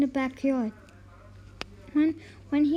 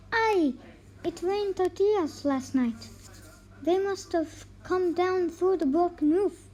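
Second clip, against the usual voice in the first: exclaiming; 3 semitones higher than usual. Acted. Wife exclaims to her husband about the tortilla rain. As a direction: sell the lie with a lively exclaim. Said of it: "and then exclaimed".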